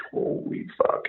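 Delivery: stunned whisper under the breath; whispered awe. Retold or imitated. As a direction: mouth it in disbelief at the show. Retold being blown away live.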